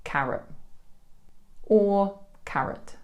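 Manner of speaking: "carrot" with a schwa, T dropped then kept; natural carrot. Shown as a demonstration. Teacher models "carrot" two ways. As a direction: say "carrot" with an uh vowel, with and without the T. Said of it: "The natural pronunciation is".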